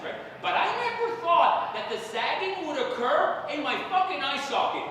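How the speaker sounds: usual speaking voice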